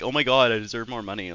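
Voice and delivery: lightly voiced alpha male; a hint of alpha male bluster. Streamer mocking entitlement to chat, light alpha male impersonation. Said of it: "that's my alpha male impersonation".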